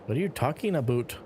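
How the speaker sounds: teasing Canadian vowel in "about". Acted. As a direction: say "about" as "a-boot". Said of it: "You say about the very Canadian way".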